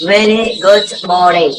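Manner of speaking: वेरी गुड मॉर्निंग said slowly, word by word; measured teacher's demonstration; slow model phrase. Shown as a demonstration. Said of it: "क्या बोलते हैं?".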